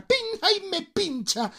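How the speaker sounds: high-pitched pretend yelp; mock pain. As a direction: yelp as if jabbed, playfully. Acts out being pricked. (grito agudo de dolor fingido)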